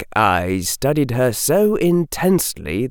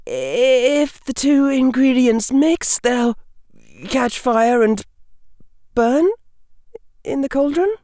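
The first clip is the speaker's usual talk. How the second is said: put-on high, tentative young woman's voice; hazarding a guess; 14 semitones higher than usual. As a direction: offer it as an unsure guess, high. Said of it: "she hazarded".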